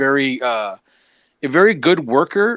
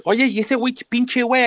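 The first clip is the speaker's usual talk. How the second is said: a higher mock-annoyed Spanish retort; imitating Demon; 11 semitones higher than usual. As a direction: toss off the Spanish line like the offended wrestler, pitched up. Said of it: "Remember Demon goes".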